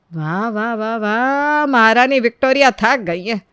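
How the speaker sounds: mock applause, dripping sarcasm; sarcastic praise. Mother-in-law mocks the tired bride with sarcastic praise.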